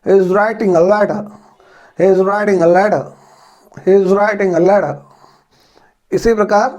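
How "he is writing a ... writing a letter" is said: British accent, say "letter" with a half t and no final r, slowly. Shown as a demonstration. Teacher demonstrating for learners, slow British accent. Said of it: "अब British accent में इस sentence को किस प्रकार से बोलेंगे".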